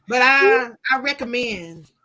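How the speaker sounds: hesitant, half-hearted endorsement; disappointed. Real, not acted. Woman reluctantly recommending her book, sounding disappointed. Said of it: "You sound so disappointed".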